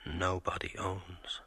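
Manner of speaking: slow hushed whisper. Acted. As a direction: barely breathe the words. Father's suicide note recalled.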